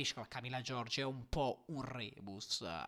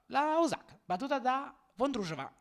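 breathless italian goal commentary; 8 semitones higher, 6 dB louder than usual. Real, not acted. Shock upset result announced.

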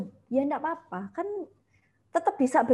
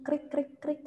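softly chirped krik krik, mimicking crickets in a silent room; cricket sounds; 5 semitones higher, 5 dB quieter than usual. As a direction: imitate crickets to show the dead silence. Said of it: "yang saya kayak". (menirukan suara jangkrik, pelan)

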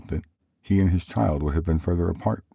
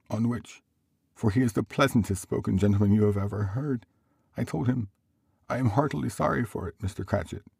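higher, earnest character voice; Bob recounting; 7 semitones higher than usual. Acted. Bob telling family of the nephew's kindness, earnest high voice. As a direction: relay sympathy in a raised voice.

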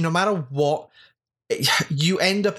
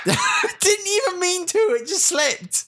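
high laughing apology; slower than usual. Real, not acted. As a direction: laugh it out helplessly. Laughing after farting.

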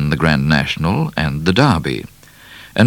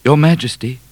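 Midnight; 8 semitones higher than usual. A narrator's reading. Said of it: "said Midnight".

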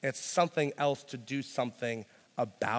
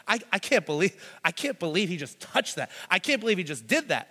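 shocked crowd; 4 semitones higher than usual. Retold or imitated. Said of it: "like, gasping".

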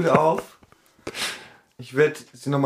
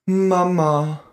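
put-on sweet child voice; 4 semitones higher, much slower than usual. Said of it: "und sagt".

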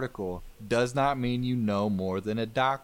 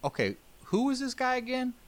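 much higher, puzzled official; high squeaky voice. Retold or imitated. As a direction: squeak it out, baffled. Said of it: "the United States is like".

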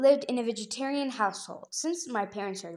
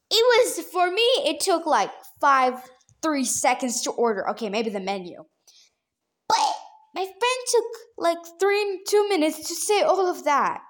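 exasperated; 5 semitones higher, 3 dB louder than usual. Real, not acted. Exasperated comparison.

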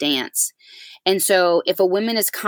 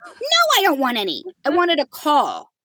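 boiling mad; 9 semitones higher than usual. Retold or imitated. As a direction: spell out each word, fuming and wounded. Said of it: "boiling at this point".

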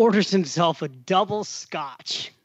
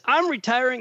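higher, lightly imitated Southern accent; 7 semitones higher than usual. Seatmate showing his retirement app, imitated Southern accent. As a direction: put on a touch of Southern accent. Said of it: "He's got a Southern accent".

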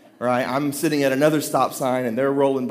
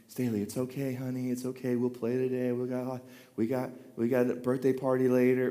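put-on much softer calming words to an upset child; hushed soothing; 6 dB quieter than usual. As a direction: soothe her like Pastor Dad. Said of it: "And I'm whispering".

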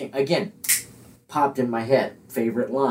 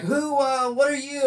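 high-pitched startled woman; mock-startled woman, pitched up; startled co-star; 10 semitones higher than usual. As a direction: squeak it out like she just woke to a stranger.

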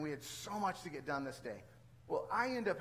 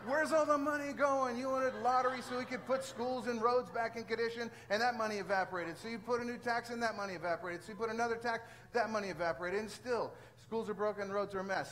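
angry rant; 5 semitones higher than usual. Retold or imitated. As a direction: vent it all, half laughing, half fuming. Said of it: "I'm like".

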